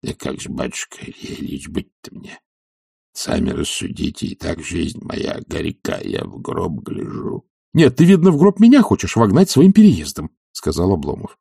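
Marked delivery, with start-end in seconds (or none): 0.0-7.5 put-on meek old servant. Zakhar asking his master timidly, hushed. 7.7-10.3 higher, louder indignant reproach; reproachful master. Acted. Oblomov reproaching Zakhar, loud and indignant.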